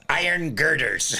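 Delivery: high, slow mock Scottish; Scottish accent. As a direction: draw it out like a Scottish lady. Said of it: "this is how they talk".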